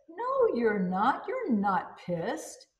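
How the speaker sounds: slow, drawn-out correction with swooping pitch; mock contradiction. Woman answering the imagined angry person, teasing contradiction. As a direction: stretch out the denial, lilting up at the end.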